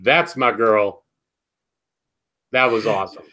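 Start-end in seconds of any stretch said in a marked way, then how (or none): 0.0-1.0 low, slow proud approval; retold approval. Podcaster retelling their reaction to a character's comeback, low slow approval. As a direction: drawl it low, savouring each word. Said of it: "I'm just like".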